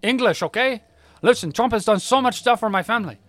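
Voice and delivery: high, loud, hurried objection; pleading protest. Retold or imitated. Old man defends Trump, loud flustered protest. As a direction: push back, flustered. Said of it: "And he goes".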